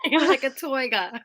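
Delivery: high, loud hammed-up "toiga" for tiger; mock Goldmember accent. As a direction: play it like a silly movie accent. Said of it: "meant to be like, uh, Goldmember".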